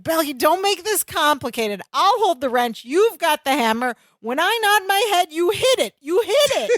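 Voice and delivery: mock irritation building to high insistence; annoyed. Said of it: "getting annoyed".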